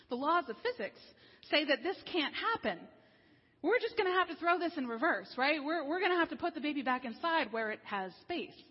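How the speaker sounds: lightly acted rising alarm; animated retelling. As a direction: act out the dawning panic. Quoting blogger's birth panic.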